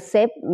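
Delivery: "sep-" alone, short first syllable; syllable demonstration. Shown as a demonstration. Teacher showing learners the first syllable, isolated pronunciation. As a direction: isolate "sep-" before the whole word. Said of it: "ออกเสียง sep".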